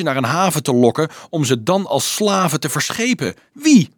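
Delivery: high, loud, indignant questioning; outraged demand. A narrator's reading. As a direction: demand the culprit, ending in a sharp high burst. Dolf demands who devised the scheme.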